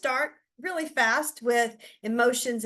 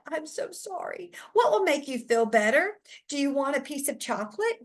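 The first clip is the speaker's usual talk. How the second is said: a touch of a coddling teacher; 3 semitones higher than usual. Acted. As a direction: soothe her like an over-eager rescuer. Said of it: "you're like".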